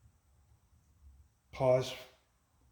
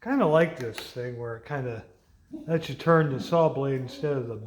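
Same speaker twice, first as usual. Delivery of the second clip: raised voice over a loud saw; shouting over table saw; 5 dB louder than usual. Real, not acted. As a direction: push the words over the machine noise. Talking over table saw noise.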